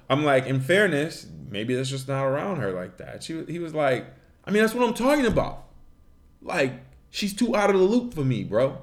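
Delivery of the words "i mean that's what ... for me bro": higher, fast dopey bro voice; hammed-up caveman bro; dumb caveman voice. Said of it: "put on the dumb caveman voice".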